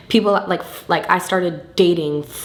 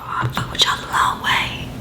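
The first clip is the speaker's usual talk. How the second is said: half-whispered, choked-up thanks; mock-tearful gratitude to fans, hushed; deep sincere moment; 3 dB quieter than usual. Real, not acted. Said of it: "That got deep for a second".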